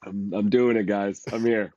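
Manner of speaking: hoarse, congested voice from a cold; sick radio voice. Real, not acted. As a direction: talk through a stuffy head cold. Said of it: "Got that nice radio voice going".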